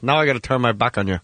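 a light, quick Pacino-style threat, barely shifted from his own voice; a hint of Pacino menace, tossed off fast; Pacino impression. Quoting Goodfellas to the crowd as a faint Pacino. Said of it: "I said that as Ralph Garman's Pacino".

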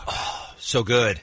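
slow, breathy whispered praise; whispering. Real, not acted. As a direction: whisper it, savoring.

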